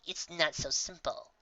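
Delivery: slow, soft and resigned; sighing. Acted. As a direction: let it out on a tired sigh. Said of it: "the unicorn sighed".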